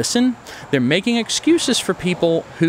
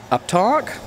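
"uptalk" sweeping sharply up at the end like a question; 8 semitones higher than usual. Shown as a demonstration. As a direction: pitch "uptalk" high and rising. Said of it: "like this".

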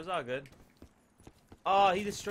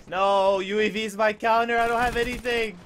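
loud, raised-pitch pleading yell; urgent protest; 3 semitones higher, 7 dB louder than usual. Real, not acted. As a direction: shout it in the heat of the fight. Protesting mid-fight.

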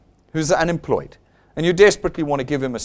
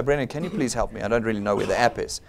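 softer, lower, courteous plea for help; nice polite request; 7 semitones lower, 7 dB quieter than usual. Acted. Newcomer politely asks the presenter for help with the app, nicely. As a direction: ask nicely and quietly, a little unsure. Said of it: "They don't walk up to you nicely".

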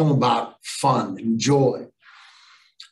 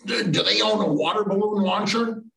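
higher, stammered question; hesitant questioner; 7 semitones higher than usual. Retold or imitated. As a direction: imitate a caller asking awkwardly. Acts hesitant stranger's question.

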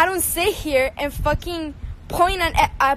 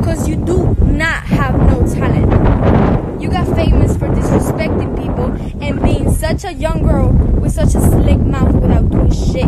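angry shouting; 9 dB louder than usual. Real, not acted. To the rich girl who DM'd her, a loud furious shout. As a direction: shout it out, each word hammered.

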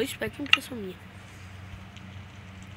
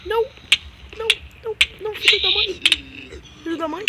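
frustrated outburst; 8 semitones higher, 6 dB louder, faster than usual. Real, not acted. Dies in game, curses.

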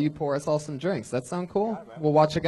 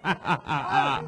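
loud hype-man call to the crowd; rally the room, punching it out loudly; rallying shout; 4 semitones higher, 6 dB louder than usual. Real, not acted. Host rallies the crowd.

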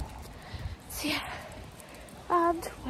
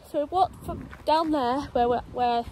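breathless from the uphill walk; puffing between words; out of breath. Real, not acted. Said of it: "God, I'm out of breath".

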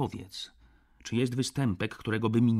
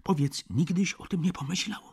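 rising, louder and higher, pressing harder; more and more boldly; 6 semitones higher, 7 dB louder than usual. Acted. Tipsy friend pressing Stach about being mocked, ever bolder and louder. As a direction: push the point home, bolder with each phrase. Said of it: "mówiłem coraz śmielej".

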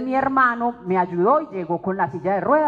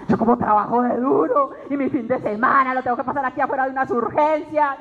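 wretched self-pity; 3 semitones higher than usual. Retold or imitated. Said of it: "me sentí la más desdichada".

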